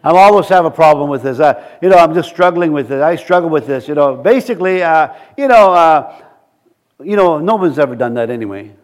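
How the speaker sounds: low-pitched, acted defeatist grumble; negative. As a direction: imitate someone resigned to failing. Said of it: "you speak negative".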